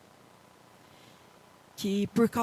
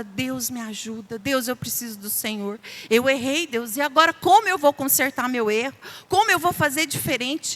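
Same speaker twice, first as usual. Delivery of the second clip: retold prayer; 2 semitones higher, 4 dB louder than usual. Mother praying to God for help, rising anguished plea. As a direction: cry out to God, building to a plea. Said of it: "eu orava".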